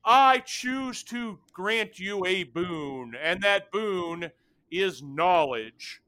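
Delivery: slow, grand creature granting a boon; measured and lordly ancient being; telepathic creature. Acted. GM voices Ilvatri.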